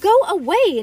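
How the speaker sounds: loud, high, annoyed dismissal; huffy. A narrator's reading. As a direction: shoo the little sister off. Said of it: "Nancy huffed".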